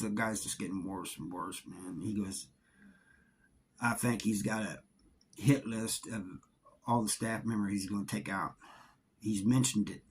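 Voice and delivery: a retold, hushed warning about a cellmate's hit list.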